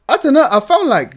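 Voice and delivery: giggling through the words; laughing. Real, not acted. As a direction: laugh it off embarrassedly. Laughing embarrassed answer.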